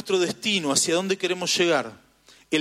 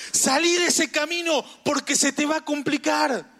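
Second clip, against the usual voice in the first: warning voice; 8 semitones higher than usual. Acted. GPS warning the driver off the road, high urgent call. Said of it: "Y él me estaba diciendo".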